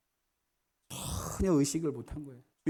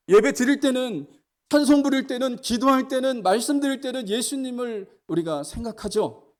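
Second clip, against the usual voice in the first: higher, louder rising preaching list; climbing sermon cadence; fervent preaching; 8 semitones higher, 5 dB louder than usual. Acted. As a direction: stack each phrase higher for the flock.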